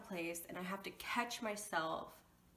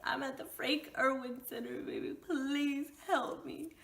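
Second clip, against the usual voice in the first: desperate plea; 6 semitones higher than usual. Retold or imitated. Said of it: "I said".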